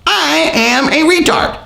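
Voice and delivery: high, slow mocking dopey voice; mock dumb voice. Mocking the commenter's intelligence in a dopey voice.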